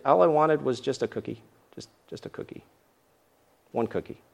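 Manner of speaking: mock whine that falls to a near whisper; whiny mock plea. Tired host mocks pleading for a cookie, in a whiny near whisper. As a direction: plead half in jest for one cookie. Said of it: "you're like".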